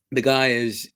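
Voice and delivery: usual speaking voice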